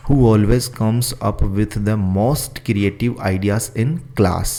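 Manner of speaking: very slow, word by word for copying; slow dictation. Shown as a demonstration. Teacher dictating the question to students, slow and careful. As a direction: read it out slowly so students can write. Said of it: "तो ये आपको लिखना है".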